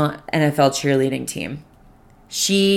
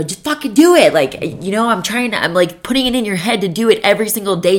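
universe screaming; 4 semitones higher than usual. Retold or imitated. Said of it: "the universe was fucking, like, screaming at me".

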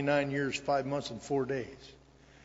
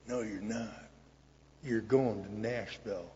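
put-on dying old man; 3 semitones lower, slower than usual. Dying sponsor gives firm orders.

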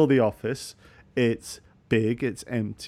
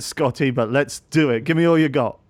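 excited; 7 dB louder than usual. Real, not acted. Cheering on the accent.

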